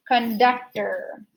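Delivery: CONDUCTOR slowly as kun, DUC, ter; slow, measured CONDUCTOR ending in er; syllable by syllable. Shown as a demonstration. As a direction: sound out CONDUCTOR in three beats. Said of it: "er, conductor".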